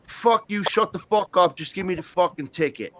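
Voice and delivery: retold cussing-out, starting high and falling away; mock defiance. Buddy cursing at the cop during a stop, mock defiant. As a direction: imitate a buddy dismissing authority.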